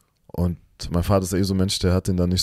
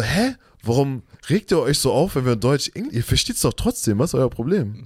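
exasperated puzzlement; 4 semitones higher than usual. Retold or imitated. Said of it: "dann denk ich mir so".

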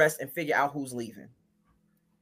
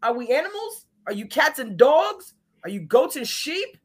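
higher, exasperated scolding; higher scolding slowed on the animal questions; scolding the couple; 5 semitones higher than usual. Retold or imitated. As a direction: shame them like a fed-up mom. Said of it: "I'm in the middle like".

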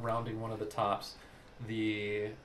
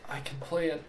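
halting, slightly raised character voice; Mildred; 3 semitones higher, 6 dB quieter than usual. Acted. Mildred telling her friend she can't go along, halting and subdued. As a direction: answer haltingly, with long pauses, fading softer.

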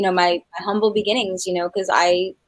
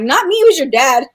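laughing denial; 6 semitones higher, 8 dB louder than usual. Retold or imitated. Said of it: "And I'm like".

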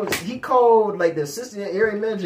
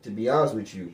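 fake polite; 11 semitones lower, 6 dB quieter than usual. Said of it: "I did that fake".

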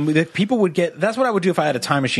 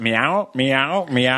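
cat meow; much slower than usual. Retold or imitated. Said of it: "It goes".

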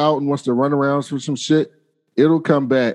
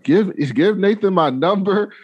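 higher, bossy mom voice; sassy mom; 6 semitones higher than usual. Retold or imitated. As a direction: boss him around like a mom. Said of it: "And then she's like".

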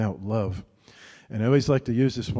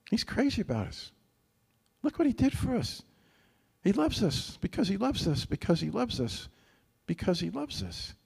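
higher, in awe of his love; marveling; 8 semitones higher than usual. Real, not acted. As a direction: lift up in delighted wonder. Preacher marvels at God's love.

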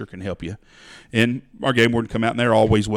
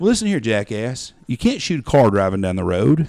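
scolding; 3 semitones higher, 5 dB louder than usual. Retold or imitated. Scolding the road shooter.

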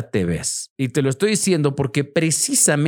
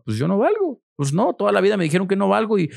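high, whiny voice of someone who feels worthless; whiny devalued self; 6 semitones higher than usual. Retold or imitated. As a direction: play the self-pitying inner voice, pitched up. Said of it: "así como".

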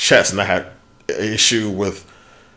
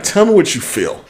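put-on light Russian doctor accent, pitched up; imitating Russian accent; 9 semitones higher than usual. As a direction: mimic the Russian doctor gently. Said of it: "she has a very heavy accent".

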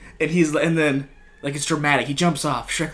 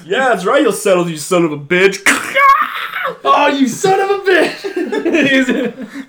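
high, loud, dragged-out taunting shout; laughing mock battle yell; hammed-up yelling; 12 semitones higher, 6 dB louder, slower than usual. Retold sniper yelling.

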